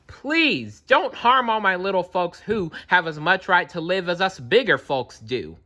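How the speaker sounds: high pleading voice; begging. A narrator's reading. Horton begging the eagle for his tiny friends, pleading high. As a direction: beg the eagle to spare them. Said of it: "and begged".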